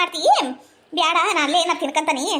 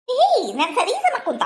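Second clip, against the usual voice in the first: laughing; 6 semitones higher, slower than usual. Acted. Teasing remark with laughter.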